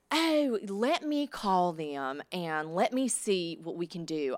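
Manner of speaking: slow, drawn-out Southern woman voice; Southern landlady. Retold or imitated. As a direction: stall sweetly in a slow Southern drawl. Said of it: "like these ornery Southern women".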